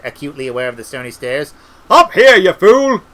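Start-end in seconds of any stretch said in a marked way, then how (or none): 1.9-3.0 impatient shout. A narrator's reading. Wizard shouts down from broomstick.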